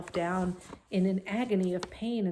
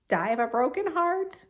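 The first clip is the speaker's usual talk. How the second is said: a hint of mocking pig voice, louder; mimicking mildly; 6 semitones higher, 6 dB louder than usual. A narrator's reading. Templeton mimicking Wilbur, mild mocking tone. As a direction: lightly parrot him. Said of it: "he mimicked".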